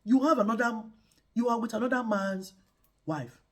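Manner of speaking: God warns the king again; God's warning. Retold or imitated. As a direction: boom it down from heaven. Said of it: "God told Abimelech".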